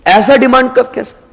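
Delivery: puzzled student. Pretend. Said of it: "अब आप ये पूछेंगे कि सर".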